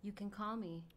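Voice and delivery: smooth chill radio host; late night radio host. Pretend. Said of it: "You sound like a late night radio host".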